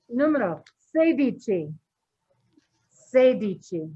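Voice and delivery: muffled through a mask; talking behind a face mask; full face dive mask. Real, not acted. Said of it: "Can you hear me through the mask?".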